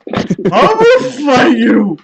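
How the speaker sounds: put-on high slow sobbing drunk yell; drunk crying threat. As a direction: wail it like a sad drunk. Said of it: "depressingly drunk".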